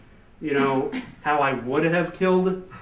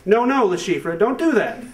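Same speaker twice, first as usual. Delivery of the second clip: mildly raised, gently scolding parent; a half-hearted parental warning; 5 semitones higher than usual. Retold or imitated. Parent telling little Le Chiffre off, lightly scolding. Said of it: "You're like".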